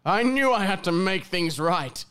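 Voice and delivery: slow, gentle Falcor-style dragon voice. Acted. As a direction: speak like a wise old luck dragon, slowly. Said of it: "Falcor ... that kind of vibe".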